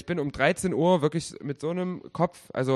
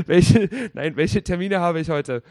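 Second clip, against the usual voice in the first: loud, clear command to a phone; asking Siri; 3 semitones higher, 12 dB louder, slower than usual. Retold or imitated. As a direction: speak up so the phone understands. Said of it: "Hey Siri".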